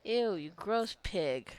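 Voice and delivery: slow, playful fake disgust at a Sim; mock disgust. Shown as a demonstration. Gamer teasing her Sim in slow mock disgust. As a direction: drag it out like a teasing insult. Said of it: "this is how I speak to my Sims".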